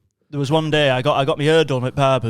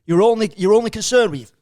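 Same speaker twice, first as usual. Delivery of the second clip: imitating a cross dad, rising louder; mock bollocking from an exasperated father; dad's telling-off; 3 semitones higher, 4 dB louder than usual. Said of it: "my dad starts bollocking me".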